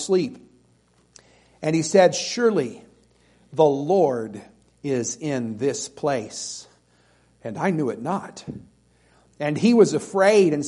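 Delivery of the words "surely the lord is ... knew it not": soft, slow awe; quiet awestruck realisation; awed hush. Acted. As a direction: breathe it out in wonder. Jacob waking in awe.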